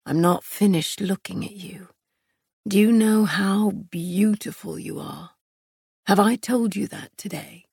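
lightly voiced male lover, adoring; admiring male lover. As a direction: murmur admiration as the romantic hero.

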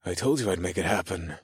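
low, soft tease; understated playful boast; teasing. A narrator's reading. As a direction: tease gently, keeping it low. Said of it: "I teased Gemma".

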